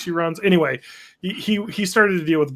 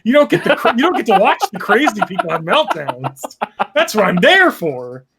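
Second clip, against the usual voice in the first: excited; 4 semitones higher, 4 dB louder than usual. Real, not acted. Excited mocking rant.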